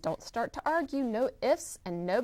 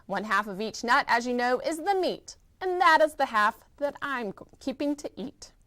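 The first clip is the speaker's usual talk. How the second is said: laughing; 2 semitones higher, 4 dB louder than usual. Acted. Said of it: "said with a laugh".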